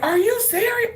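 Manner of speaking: hammed-up angry woman, very high; mock outrage. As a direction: hurl the question at him. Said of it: "that fucking woman went off on me".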